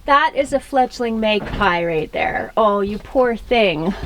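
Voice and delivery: gently sorry for it; tender. Real, not acted. Sees fledgling magpie.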